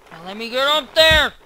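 said aloud. Real, not acted. Repeated aloud while climbing.

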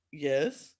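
low, curt annoyed reply. Retold or imitated. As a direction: answer in a dropped, irritated pitch. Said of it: "Are you annoyed".

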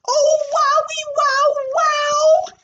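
high squeal of wonder; girl thrilled at a surprise gift; delighted. Acted. Finds camera in bag.

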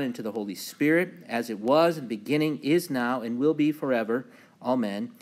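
emphatic liturgical recitation, rising and falling; psalm reading. Acted. Pastor opening Bible study with the introit, emphatic psalm reading. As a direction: read scripture out to the congregation in measured phrases.

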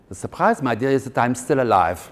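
a touch of German grande dame; German accent. Retold or imitated. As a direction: play the grand old aunt in German accent. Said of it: "if I try and do a German accent".

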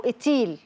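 "إتيل" with the K replaced by a glottal A; distorted child word. Retold or imitated. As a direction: imitate a child's garbled "إتيل". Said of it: "غير شكل الكلمة". (نطق طفولي مشوّه "إتيل")

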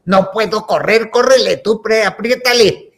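acted urgent call for help; high, loud mock urgency; urgent plea. Acted rush to the elevator.

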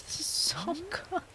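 laughing softly through the words; soft, high, laughing awe; laughing with emotion. Real, not acted. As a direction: giggle it out, overwhelmed. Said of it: "I'm gonna cry".

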